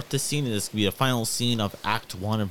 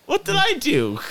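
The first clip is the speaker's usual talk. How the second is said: high, loud protest; shocked and defensive; indignant surprise; 5 dB louder than usual. Real, not acted. Protesting being accused.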